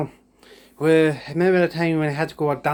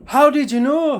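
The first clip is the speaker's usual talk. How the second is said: high, loud startled squeak; a high loud shocked squeak; mock surprise; 12 semitones higher, 4 dB louder than usual. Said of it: "I was like".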